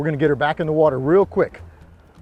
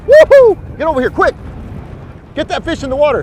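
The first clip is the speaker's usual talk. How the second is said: loud high call across the boat; calling from far away; 9 semitones higher, 11 dB louder than usual. Real, not acted. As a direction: shout to the partner.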